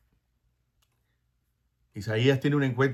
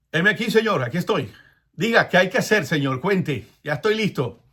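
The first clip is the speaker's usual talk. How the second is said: higher and louder, keen to serve; eager readiness; 4 semitones higher, 4 dB louder than usual. Acted. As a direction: answer the call eagerly, ready to go. Ananías voiced answering eagerly. (Ananías respondiendo con entusiasmo, más agudo y fuerte)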